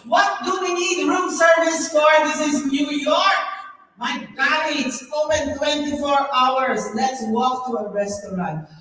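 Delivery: indignant outburst. Retold or imitated. Recalled indignant outburst to companion.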